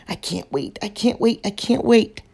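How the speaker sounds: a little bear who can't stand waiting any longer; growing impatience. Acted. Impatient cub waiting for cakes.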